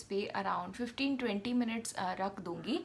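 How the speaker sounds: face stiff under mask; through a sheet mask. Real, not acted. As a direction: lips framed by mask hole. Seen 4: Wet sheet mask covers face throughout; mouth opening leaves lips free.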